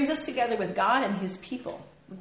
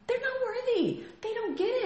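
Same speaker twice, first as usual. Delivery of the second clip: dismissive; 14 semitones higher than usual. Acted. Dismissing the mocking world.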